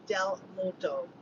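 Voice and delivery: slow "del Morto", word by word; careful sounding-out. Shown as a demonstration. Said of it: "how do I say it properly".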